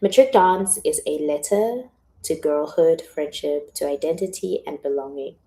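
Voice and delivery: projected, heartfelt reading that settles after the opening; reading a letter aloud. Acted. Author reading letter to her angels, projected and sincere. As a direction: announce the title loudly, then read it out.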